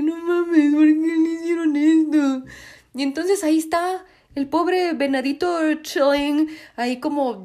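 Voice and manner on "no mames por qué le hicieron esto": outraged disbelief. Retold or imitated.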